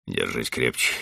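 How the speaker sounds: plain reading voice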